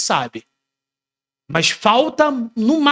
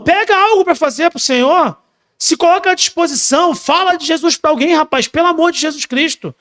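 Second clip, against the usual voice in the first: fiery preaching; 5 semitones higher than usual. Acted. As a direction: rouse the congregation to act. Preaching at full force.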